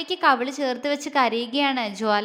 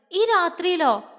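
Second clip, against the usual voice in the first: higher, unsure asking; doubtful question; 5 semitones higher than usual. Acted. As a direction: ask as if doubting the idea. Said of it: "അവൾ സംശയത്തോടെ ചോദിച്ചു". (സംശയത്തോടെയുള്ള ചോദ്യം)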